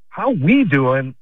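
slowed mocking "How we doing?"; mocking greeting. Caller mocking a fake-friendly greeting, slow. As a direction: drag the "we" out mockingly. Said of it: "they ask me".

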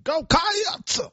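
a high wailing Go Cats; extra syllable. Retold or imitated. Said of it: "You're adding a syllable".

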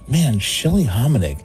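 slow, half-laughing disbelief, drawing out the words; laughing through it. Retold or imitated. Recalling thinking it about the girl in front, laughing. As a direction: laugh as you tell the punchline. Retold shocked thought, laughing.

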